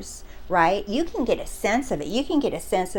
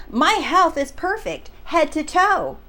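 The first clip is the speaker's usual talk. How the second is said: higher-pitched, emphatic retold order; declaration; 5 semitones higher than usual. Subscriber declaring her health perfect, firm declaration. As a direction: state it as settled, pitched up. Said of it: "That's a declaration".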